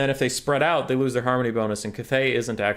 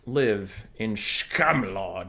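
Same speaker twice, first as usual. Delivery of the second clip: mock grand voice; much slower than usual. Mock reply to his own words.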